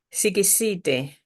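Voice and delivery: sikisite said slowly, si-ki-si-te; sikisite, calm and clear; local sikisite. Shown as a demonstration. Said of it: "don't start saying sixty in your own accent".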